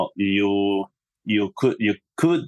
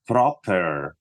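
"proper" leaned on, slow and deliberate; slow down and underline the word "proper"; stress on PROPER. Real, not acted. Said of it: "I stress the word proper".

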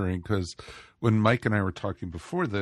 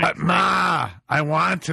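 whiny son; 7 semitones higher, 6 dB louder, slower than usual. Pretend. Whining to mother like Arnold.

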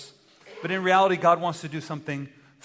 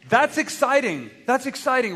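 excited; 7 semitones higher, 5 dB louder than usual. Shown as a demonstration. Preacher models excitement for the congregation. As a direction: sell the excitement to the room. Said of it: "that was not enthusiastic at all".

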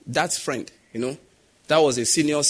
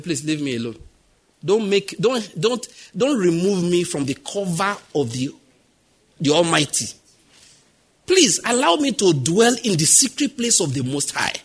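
fervent plea; 3 semitones higher than usual. Retold or imitated. Preacher pleading with advisers.

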